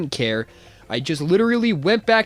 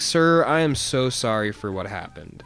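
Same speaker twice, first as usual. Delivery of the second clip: fake apology; 4 semitones lower than usual. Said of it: "I was being totally manipulative".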